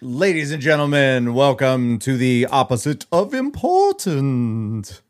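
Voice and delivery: slow, booming show host; hammed-up spooky welcome; announcer voice. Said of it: "It's not Halloween. I don't know why I did that".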